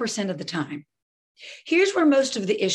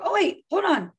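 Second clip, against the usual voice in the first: a lightly raised delighted parent voice; praising parent; 3 semitones higher than usual. Shown as a demonstration. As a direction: cheer the kid on for cooperating. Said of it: "but then I go".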